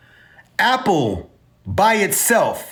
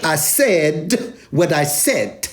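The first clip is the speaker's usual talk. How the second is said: slow, drawn-out reality-star sass through a laugh; laughing Housewives diva catchphrase, stretched slowly; Nene voice; much slower than usual. Retold or imitated. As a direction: deliver it like a Housewives diva laying down the law, laughing. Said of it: "in my Nene voice from, from The Real Housewives".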